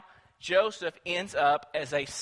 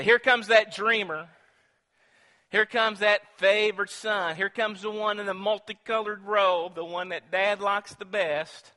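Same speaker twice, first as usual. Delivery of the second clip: mocking sneer; 3 semitones higher, 4 dB louder than usual. Brothers mock Joseph.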